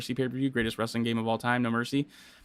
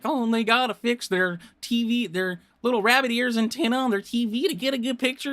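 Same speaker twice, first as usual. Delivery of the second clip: much higher hammed-up hick accent; Miz's redneck accent bit, much higher and hammed up; mock redneck accent; 12 semitones higher than usual. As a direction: imitate Miz mocking rural fans with a redneck twang. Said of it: "like a redneck type accent".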